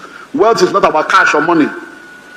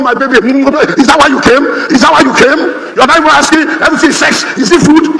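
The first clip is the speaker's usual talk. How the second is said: mock complaining wife; 6 semitones higher than usual. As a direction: whine like an upset wife, half laughing. Wife complaining when husband arrives.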